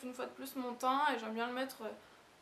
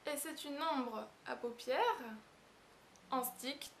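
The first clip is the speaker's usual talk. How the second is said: slow, deliberate ombre à paupières; careful corrected take after the stumble; careful retake; slower than usual. Real, not acted. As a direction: say paupières slowly and cleanly this time. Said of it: "Oh, j'ai pas y arriver".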